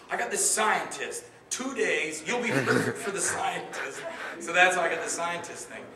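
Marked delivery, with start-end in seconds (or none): 0.1-4.0 pitching. Retold or imitated. Caller offers the scientist role.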